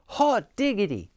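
high, gleeful shout; excited shout. A narrator's reading. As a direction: whoop it out like a happy frog. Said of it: "shouted he".

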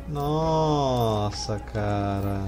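usual speaking voice

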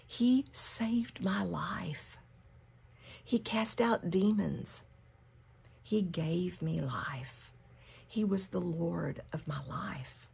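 slow, understated acted grief; mild acted heartache, measured and earnest; distraught. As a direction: draw it out as a grieving follower. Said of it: "she's so distraught and crying".

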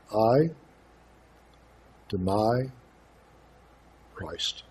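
slow, spaced words that fade to almost nothing; hushed fading quote. Retold or imitated. Preacher hushes the words the girl refused to say, soft and slow.

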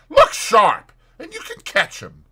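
high call, loud at first then easing; urgent cry. A narrator's reading. Landlord hurries Fetz to the stairs, crying out. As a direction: call out to hurry someone along. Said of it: "cried the landlord".

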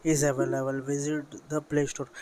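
reads the screen message out word by word, very slowly; slow reading. Retold or imitated. Gamer slowly reading the update notice to viewers, very slow. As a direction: spell out the on-screen notice at a crawl. तो यहाँ पे दिखा जाता है.

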